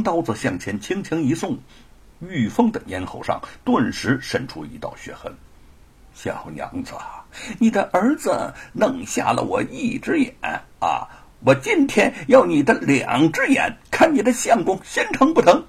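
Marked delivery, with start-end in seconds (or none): 6.2-15.6 menacing villain. A narrator's reading. Villain threatens captive woman's eyes for his lost one, menacing. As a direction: taunt the captives, climbing in pitch.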